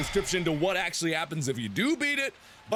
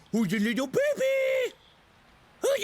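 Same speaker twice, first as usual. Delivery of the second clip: put-on shouted baby talk; 13 semitones higher than usual. Player yelling mock baby talk into the microphone. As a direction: yell the baby question up high.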